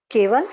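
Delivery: केवल punched loud; only केवल emphasised; stress on केवल. Shown as a demonstration. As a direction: hit केवल hard.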